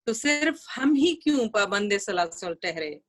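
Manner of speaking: measured, lilting verse reading; ghazal recitation. Acted. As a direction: recite the couplet for a mushaira audience.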